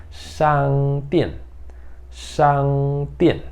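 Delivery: shangdian said slowly with falling Mandarin tones; Mandarin word shangdian. Shown as a demonstration. Teacher modelling shangdian for students. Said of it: "Shangdian significa loja".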